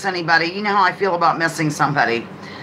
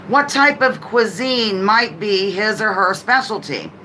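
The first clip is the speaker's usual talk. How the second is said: ordinary talk, nothing marked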